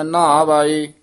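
ਨਾਵਾਏ joined, "naa-vaa-ey" without a break; ਨਾਵਾਏ as one word. Shown as a demonstration. Teacher demonstrates for students, ਨਾਵਾਏ unbroken. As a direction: run the syllables of ਨਾਵਾਏ together. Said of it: "ਇਕੱਠਾ ਬੋਲਣਾ ਹੈ".

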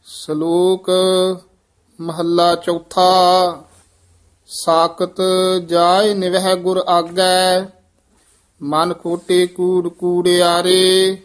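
measured, even-toned Gurbani reading; scripture recitation. Acted. Reciter reads Gurbani verses for learners, measured recitation. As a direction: recite on a level, sustained tone.

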